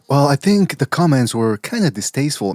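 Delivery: slow, proper, polite voice; a polite parody of the dad; prim mock quote. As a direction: play it prim and dignified. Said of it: "conversation probably went like".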